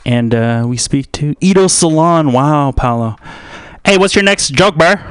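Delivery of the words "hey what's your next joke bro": higher-pitched heckler voice; high, interrupting bro voice; heckling bro. Acted. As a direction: butt in as a pushy bro. Heckling himself in another voice.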